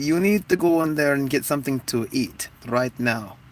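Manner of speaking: lightly voiced Ethiopian grandma. Grandma making sure you eat, lightly put-on Ethiopian accent. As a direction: insist with a mock Ethiopian accent. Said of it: "Ethiopian grandmas".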